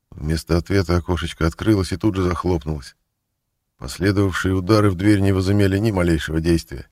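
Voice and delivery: ordinary delivery, nothing marked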